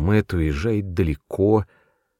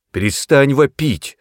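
louder, higher sharp command; shouting her down; 7 semitones higher, 6 dB louder than usual. A narrator's reading. Brother shouts his sister down. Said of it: "прикрикнул он на неё".

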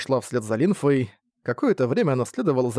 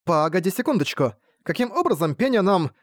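cut off mid word; 6 semitones higher than usual. Acted. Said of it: "Прервалась Элен на полусловие".

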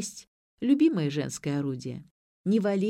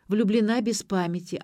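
ordinary delivery

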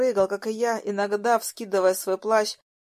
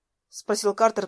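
usual speaking voice

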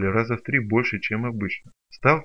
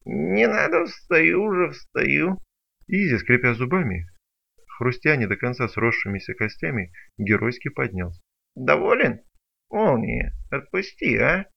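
higher whiny pleading creature; whining plea; 3 semitones higher than usual. Acted. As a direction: beg him to let go. (жалобно, выше)

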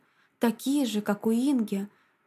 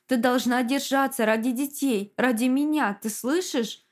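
pleading; 3 semitones higher than usual. Acted. Husband pleading with dying wife.

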